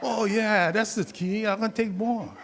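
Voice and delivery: put-on old lady. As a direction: chirp it like a pleased old woman.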